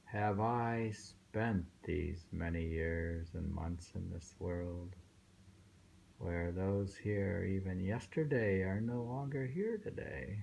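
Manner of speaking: slow, measured poem recital. Acted. Reading a Saigyo poem aloud to his partner, slow recital. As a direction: let each line of the poem settle, unhurried.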